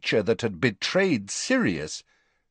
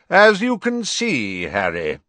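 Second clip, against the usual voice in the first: raised, higher voice to carry over the noise; loudly; 7 semitones higher, 6 dB louder than usual. A narrator's reading. Dumbledore raising his voice over the elf, loud. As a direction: speak up over the croaking elf. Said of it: "said Dumbledore loudly".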